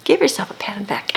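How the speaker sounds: quick whispered aside to the listener; playful whisper. Acted. Telling the struggling listener to praise themselves, in a quick whisper. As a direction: whisper it fast like a little secret.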